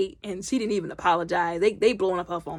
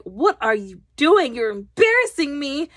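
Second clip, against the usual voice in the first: imitating an embarrassed daughter, pitch raised; mortified teenager; 6 semitones higher, 4 dB louder than usual. Daughter mortified by her mother.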